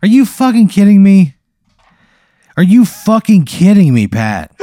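loud outraged disbelief; outraged yell. Real, not acted. Player shouting at the game master in outrage, loud.

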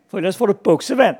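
quick, loud taunt; yelled threat. A narrator's reading. Big boys threaten Ivan with a dunking, quick yelling. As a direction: yell the threat in a rush. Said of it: "skreg nogen".

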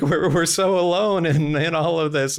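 lightly hammed-up cry of stranded hikers; imitated yelling out. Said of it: "they yell out".

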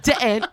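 "dent" with a hard T; hard dentalization. Shown as a demonstration. Explaining dentalization, "dent" with hard tongue-on-teeth consonants. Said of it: "Hard dentalization's like".

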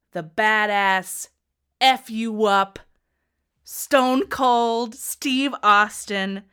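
a hint of a ring introduction; ring announcer hype. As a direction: stretch it out like introducing him to the arena. Hyping her favourite wrestler.

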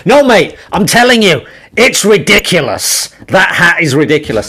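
loud, high Scottish heckle, slowed; Scottish accent. Retold or imitated. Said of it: "you'll do the accent much better than me".

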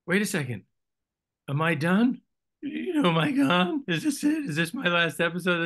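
high, rising panicked questions; a rattled actor suddenly fearing he's fired; worried disbelief. Retold or imitated. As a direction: sound like you just realized you're written off. Panicked self at table read.

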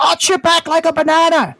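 high, sustained mock yell; retold screaming. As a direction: imitate an Australian instructor hollering commands. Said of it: "he starts screaming these things".

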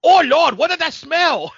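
high, loud mock Asian accent; hammed-up stereotypical Asian accent; bad Asian accent. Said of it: "terrible Asian accent".

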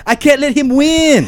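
high, loud sob in bad Asian accent; bad Asian accent, sobbing. A narrator's reading. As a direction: wail it in a hammed-up Asian accent. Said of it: "he sobbed in a bad Asian accent".

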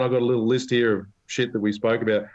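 usual speaking voice

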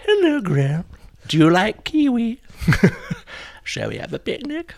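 put-on very high, loud tipsy old lady voice; Jenny Fulborough voice. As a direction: trill like a dotty dame after a few sherries. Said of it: "So I'd say".

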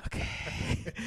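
soft, whispered giving in; whispered assent. Retold or imitated. Volunteer nose to nose with comedian, meek whisper. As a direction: answer meekly under your breath. Meek reply before the kiss.

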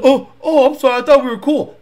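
quick, stammered backpedal; flustered apology. Retold or imitated. Stranger apologizing after being challenged, imitated flustered haste. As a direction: imitate a stranger hastily backing down. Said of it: "And he goes".

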